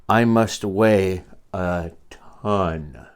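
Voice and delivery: slow, heavy Horton voice; lightly voiced slow elephant. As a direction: drag it out like a big weary elephant.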